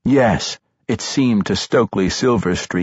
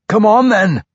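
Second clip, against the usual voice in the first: high, loud dwarf challenge; shouted challenge; 10 semitones higher, 5 dB louder than usual. Acted. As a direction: bellow the dare at the foe. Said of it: "he bade the drow warrior".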